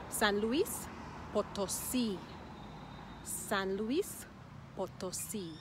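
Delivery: San Luis rising, pause, Potosí stressed on SÍ; measured model "San Luis Potosí", end-stressed. Shown as a demonstration. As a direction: land on the final "sí" of Potosí. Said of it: "The emphasis is at the end".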